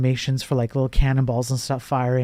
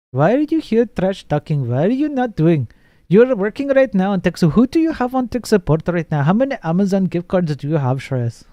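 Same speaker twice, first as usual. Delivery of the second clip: higher, mock-accusing questions; hammed-up grilling of a coworker; mock interrogation; 6 semitones higher, 4 dB louder than usual.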